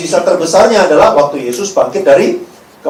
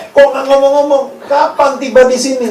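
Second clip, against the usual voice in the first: questioning crowd; 7 semitones higher than usual. Acted. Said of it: "Kan pertanyaannya gitu".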